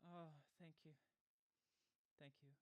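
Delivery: out of breath, panting; gasping for air between words. Real, not acted. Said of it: "I need to catch my breath".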